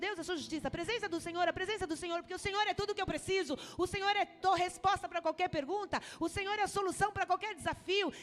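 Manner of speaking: preaching at full force. Acted. Pastor preaching to the church, fast and loud. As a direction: preach it out, rising and pressing on.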